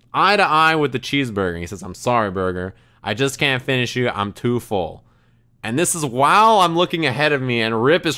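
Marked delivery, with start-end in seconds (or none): 1.8-5.0 lightly imitated regret, dropping low at the ends; a touch of mock heartbreak; mock-sorrowful apology. Friend talking to his cheeseburger, mildly mock-sorrowful. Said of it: "He was talking to the cheeseburger".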